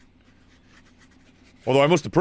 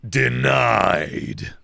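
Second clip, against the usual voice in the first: official voice attempt; 5 semitones lower than usual. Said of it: "I can't do that voice".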